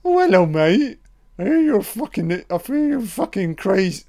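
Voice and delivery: keyed-up mock hello to a doll; excited greeting to the doll. Real, not acted. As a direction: greet the doll in a wound-up, teasing voice. Addressing the creepy child doll.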